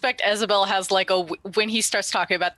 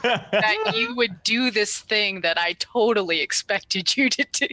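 mom guilt trip. Acted. Isabel guilt-tripping Bazig for lying, patronizing. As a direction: lay on the motherly guilt. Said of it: "doing the mom guilt trip".

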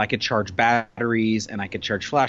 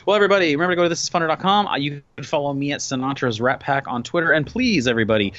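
radio voice; 2 semitones higher than usual. Acted. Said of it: "that's my radio voice".

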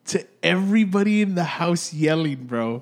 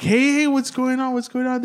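calling out; 11 semitones higher, 4 dB louder than usual. Retold or imitated. Running upstairs calling to family.

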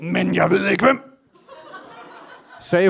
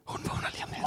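soft unvoiced whisper; 17 dB quieter, much faster than usual. Friend whispering that the girl will wake soon, hushed whisper. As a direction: whisper it so nobody wakes.

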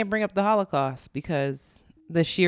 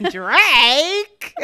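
laughing; 9 semitones higher, 9 dB louder than usual. Acted. Mock-dramatic laughing Drake.

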